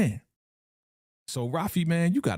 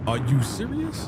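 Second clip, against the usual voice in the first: retold disbelief; 2 semitones higher than usual. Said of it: "I was like".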